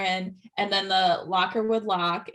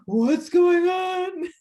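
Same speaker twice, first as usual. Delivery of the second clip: confused; 9 semitones higher, 4 dB louder, much slower than usual. Retold or imitated. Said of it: "And I was like".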